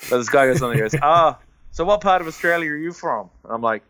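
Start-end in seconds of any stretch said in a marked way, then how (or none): 1.0-3.3 higher-pitched, put-on American accent; bad American accent. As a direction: imitate an American gamer, badly. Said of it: "I'm gonna do a bad American accent".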